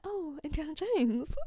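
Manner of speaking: imitating the ex-wife's pinched tone; tight-voiced woman. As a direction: mimic her tight voice. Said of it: "tight ass voice".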